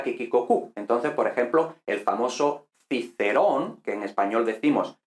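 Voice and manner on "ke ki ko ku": "ke, ki, ko, ku" with a hard k; hard K sounds. Shown as a demonstration. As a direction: repeat "ke, ki, ko, ku" with a hard k. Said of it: "todo se pronuncia K".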